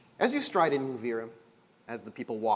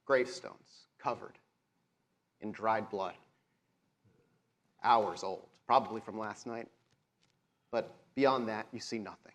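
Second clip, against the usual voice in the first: steady descriptive narration of the graveyard; game master scene setting. A narrator's reading. Game master setting the scene for the players, descriptive narration. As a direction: paint the eerie graveyard for the players.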